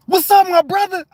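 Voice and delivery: high, loud happy hail; big re-enacted cheery shout; exuberant greeting. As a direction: call out to a friend with delight. Acts out worker's new greeting.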